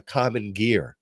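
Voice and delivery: New York intrusive R ending "gear"; New York accent. Shown as a demonstration. Host recalling recordings about his first car, New York accent. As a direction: add a New York R to the end of "Ghia". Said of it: "you stick the R somewhere where you don't".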